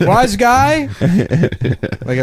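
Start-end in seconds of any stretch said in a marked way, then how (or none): 0.0-0.9 much higher, louder hammed-up mobster accent; mock Italian-American tough guy. Old gun store owner with an Italian accent confronting a customer, hammed-up mobster voice. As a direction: do a movie gangster squaring up. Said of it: "What a great accent".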